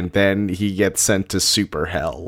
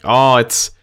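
mock fan gush; 5 semitones higher, 8 dB louder than usual. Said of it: "is just like".

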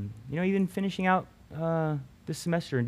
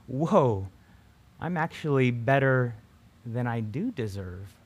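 amazed whoa. Shown as a demonstration. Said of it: "this time the W O A H".

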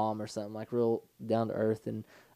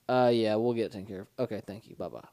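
deadpan; 3 semitones lower than usual. Retold or imitated. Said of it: "They're just deadpan".

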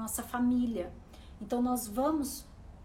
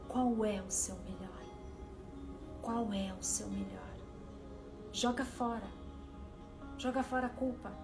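soothing spa whisper. Acted. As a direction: gently guide the listener inward. Leads a guided meditation over music.

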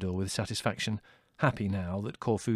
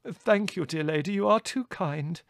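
higher-pitched, courtly thanks; grateful colonel; 7 semitones higher than usual. A narrator's reading. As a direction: thank the hostess with effusive courtesy. Colonel gratefully accepts invitation.

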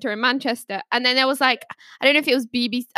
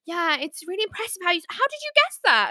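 fake flattery; 5 semitones higher, 3 dB quieter than usual. Scammer's gushing flattery retold.

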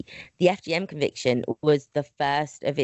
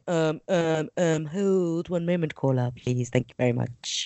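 flustered radio host. Retold or imitated. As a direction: stall the caller awkwardly. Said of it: "I don't wanna be going".

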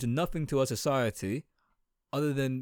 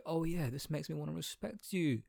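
higher-pitched fake adoration; hammed-up sycophant; mock fawning; 5 semitones higher, 3 dB quieter than usual. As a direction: gush sarcastically over royalty. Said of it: "that I would say".

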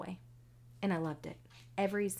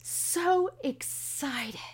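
slow, hushed whisper; awed whisper; 7 semitones higher, 3 dB louder, much slower than usual. Real, not acted. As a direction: whisper it in disbelief. Awed after winning.

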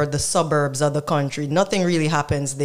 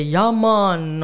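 mock Rastafarian accent; 3 semitones higher than usual. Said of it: "try to talk like a Rastafarian".

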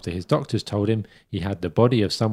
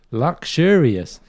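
drawn-out mocking; much slower than usual. Mocking the quoted word.

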